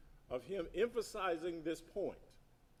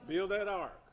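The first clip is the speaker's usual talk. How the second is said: loud call; 3 semitones higher, 6 dB louder than usual. Shown as a demonstration. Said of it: "Say it loud again".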